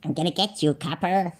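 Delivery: lightly voiced gangster-style threat; mock copper threat. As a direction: softly mimic his tough talk. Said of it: "That's the way he talks".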